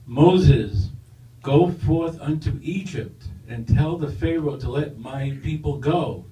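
deep, slow voice of God from above; booming voice. Acted. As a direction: boom it out like God on the mountain. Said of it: "a booming voice says".

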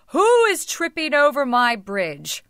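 roaring troll. A narrator's reading. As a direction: challenge them like a storybook troll. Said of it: "roared the troll".

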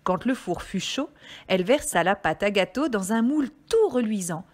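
measured, melodic storytelling; story reading for children. Acted. Reader telling children about the little red hen, storytelling voice. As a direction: read it out like a picture book.

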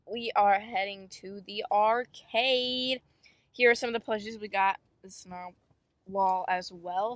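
talking through hiccups; speech broken by hiccups. Real, not acted. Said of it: "I have the hiccups currently".

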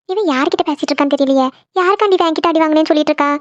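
lightly voiced mother, wary and puzzled; a mother eavesdropping, trying to work out who's on the line; hint of a suspicious mum, half to herself; suspicious mother overhearing. Mother overhears the phone call.

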